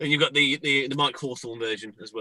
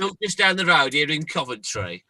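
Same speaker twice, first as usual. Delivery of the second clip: a light Brummie Midlands lilt slipping in; Midlands accent. Acted. Showing a Coventry photo to the hosts, a hint of Midlands accent. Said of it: "I don't know why I'm doing the accent".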